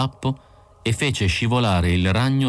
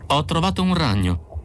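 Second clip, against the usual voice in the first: high-pitched announcement; announcing a find; 9 semitones higher than usual. A narrator's reading. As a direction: announce your discovery, voice lifted. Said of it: "John Isidore annunciò".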